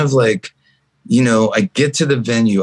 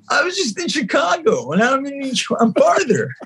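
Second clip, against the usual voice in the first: mock exasperation; 13 semitones higher than usual. Exasperated quote of himself.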